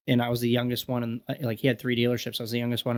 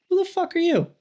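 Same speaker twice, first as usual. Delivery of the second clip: very high, loud, hostile bark from the tough customer; imitated angry shout; 4 dB louder than usual. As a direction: belt it out like a furious construction guy. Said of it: "he said".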